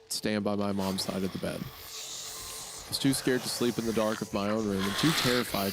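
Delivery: measured, slowed first-person story read. Acted. S1 reads the story aloud.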